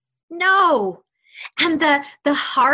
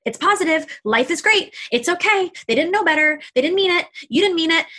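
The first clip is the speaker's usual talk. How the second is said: higher, bright forced cheer; old cheery self-talk; 5 semitones higher, faster than usual. Retold or imitated. Reciting her old habit of forced positivity to herself, mock cheerful. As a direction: brush the hurt off with sugary reassurance. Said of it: "That was my habit".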